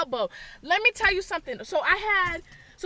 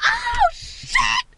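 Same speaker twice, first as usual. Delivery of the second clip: high, drawn-out curse; reenacted startled outburst; shocked shriek. Reenacts reaction after punching witch.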